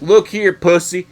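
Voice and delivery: loud hammed-up rant at a clerk; mock angry customer. Imagined customer yelling at a store clerk, hammed-up fury. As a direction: bark it like a furious customer. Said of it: "people would have been like".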